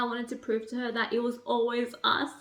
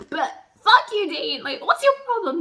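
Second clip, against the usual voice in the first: indignant; 4 semitones higher, 5 dB louder than usual. Real, not acted. Angry at a character.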